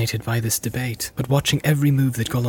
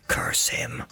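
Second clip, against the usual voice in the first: very low, soft, whispered grumble; muttered curse; 9 dB quieter than usual. A narrator's reading. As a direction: mutter it darkly under the breath. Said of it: "he muttered".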